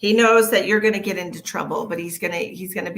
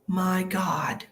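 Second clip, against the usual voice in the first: breathless whispered gasp; whispering. Real, not acted. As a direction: whisper in disbelief. Whispered exclamation.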